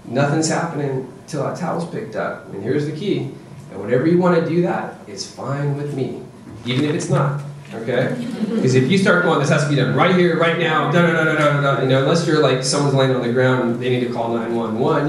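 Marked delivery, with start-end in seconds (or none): 0.0-8.1 composed, matter-of-fact parent; calm, unbothered boundary-setting. Shown as a demonstration. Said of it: "you just calmly say". 9.4-11.8 higher, pressing nagging; imitating a bossy parent; mock demanding parent. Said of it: "getting into a power struggle with your kid".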